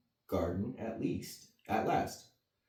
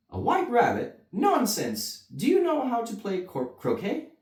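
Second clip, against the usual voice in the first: loud high scornful queen; imperious queen; 13 semitones higher, 7 dB louder than usual. Acted. The Queen dismisses Alice, loud scornful. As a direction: sneer it down at her. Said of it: "she demanded".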